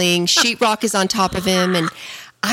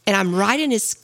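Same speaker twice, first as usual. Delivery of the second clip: ordinary delivery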